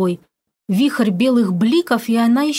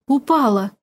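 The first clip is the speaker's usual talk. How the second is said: gusting windy whisper; 3 semitones higher than usual. A narrator's reading. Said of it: "Гулкий голос опять зашелестел, множась".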